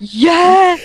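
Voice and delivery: sudden high shouted yeah; loud fake enthusiasm; mock yell. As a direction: bark it out like a hype gamer. Repeated fake yell on call.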